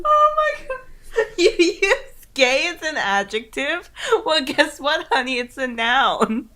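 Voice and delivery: high, slow, loud sassy voice; hammed-up diva talking down; sassy mock scold. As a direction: lay it on like a diva.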